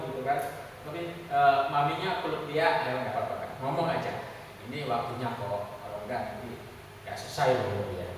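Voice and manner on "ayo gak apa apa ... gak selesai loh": low, soft mother's reassurance; gentle coaxing. Retold or imitated. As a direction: coax a child softly, voice lowered. Mama memeluk dan membujuk anaknya bicara. (membujuk lembut dengan suara rendah)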